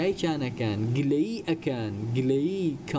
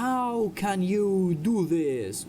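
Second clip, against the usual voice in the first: very slow, higher-pitched question; slow model reading; 5 semitones higher, much slower than usual. Shown as a demonstration. Teacher models a question for English learners, slowly.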